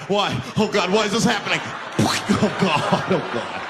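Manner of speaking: whimpered mock anguish, partly voiceless; despairing victim. Terrorized passenger obeying the demand, despairing whimper. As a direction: wail it helplessly, breaking into breath.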